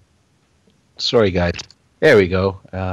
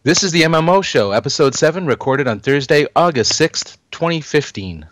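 light mock Canadian accent, a bit higher; 4 semitones higher than usual. Shown as a demonstration. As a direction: read it with a hint of Canadian accent. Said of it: "I Canadianized it".

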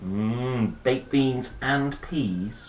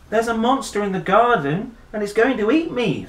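put-on higher, louder excited child; urgent warning; 11 semitones higher, 7 dB louder than usual. A narrator's reading. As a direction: blurt out the danger. Bernard warns about monster.

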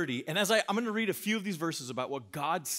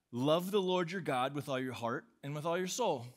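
flat sleepy reading. Shown as a demonstration. Preacher mocking a bored church reading, flat and lifeless. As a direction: read it flat and dull, like it bores you. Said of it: "Let's go to sleep".

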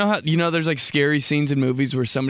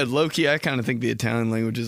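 usual speaking voice

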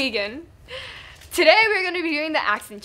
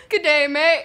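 put-on Australian accent.

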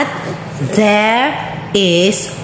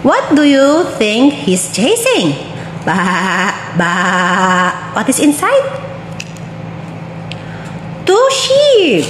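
bright, sing-song storybook voice; reading to a toddler; 3 semitones higher than usual. Acted. Reading a picture book to a toddler.

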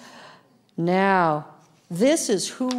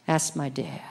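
hushed whisper; quiet awed whisper; 6 semitones lower, 7 dB quieter than usual. Pretend. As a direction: breathe it softly in awe. Whispered echo of earlier line.

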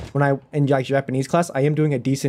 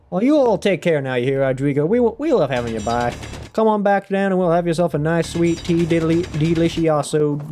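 put-on Southern accent; 3 semitones higher than usual. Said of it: "What accent haven't I attempted yet?".

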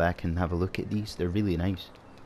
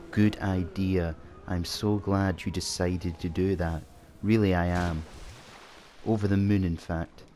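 1 sarcastic. Acted. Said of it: "I've been taking a sarcasm course".

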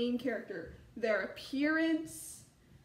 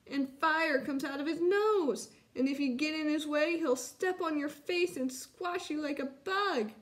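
higher, alarmed cub tattling; mild mock screech; 4 semitones higher than usual. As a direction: pile on the horrors in a raised child voice. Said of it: "screeched Chester".

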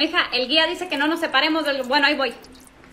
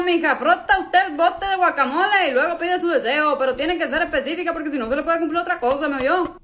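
lightly voiced Mexican dad genie; a hint of a folksy Mexican father explaining; Mexican dad accent. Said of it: "mexicano está bien, hablas como mi papá". (genio con ligero acento mexicano de papá)

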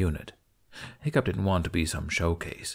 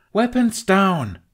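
loud, high, slow commanding bark; barked order; 11 semitones higher, 6 dB louder, much slower than usual. Acted. Kamikaze to her warriors on deck, barked order. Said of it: "Kamikaze barked".

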